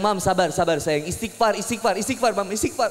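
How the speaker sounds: choppy, strained mock plea; panicked soothing. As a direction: urge patience while being choked. Panicked husband choked during wife's labour. (bujukan panik suami yang tercekik)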